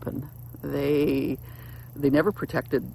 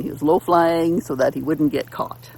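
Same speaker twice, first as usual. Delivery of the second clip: breathy whispered aside, as if hiding; 2 semitones higher, 5 dB louder than usual. Retold or imitated. Speaker describing sneaky youngest brother, in a conspiratorial whisper. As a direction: whisper it like sneaking past unseen.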